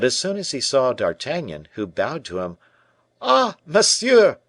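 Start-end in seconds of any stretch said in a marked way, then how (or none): 3.2-4.4 high, loud and slow delighted cry; king's cry. A narrator's reading. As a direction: greet him with a royal exclamation. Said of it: "cried he".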